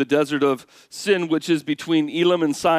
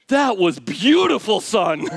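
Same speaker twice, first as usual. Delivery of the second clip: mock proud praise; 4 semitones higher, 3 dB louder, slower than usual. Praising a tantrum ironically.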